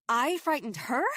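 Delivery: attacked woman can't believe the accusation; incredulous. Acted. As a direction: throw his words back in disbelief. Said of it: "I said, incredulous".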